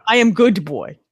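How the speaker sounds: lightly voiced dog in a cheesy Russian accent; proud dog with a rough German-turned-Russian accent. Owner voicing her dog boasting, in a mock German-Russian accent. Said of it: "German accent that kinda comes out Russian".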